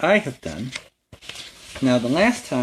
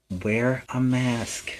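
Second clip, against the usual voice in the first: each word laid down slowly and softer; slow emphatic plea; 4 dB quieter, much slower than usual. Acted. Spider-Man urging kids to wear masks, slow and emphatic. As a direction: make it the one thing they remember.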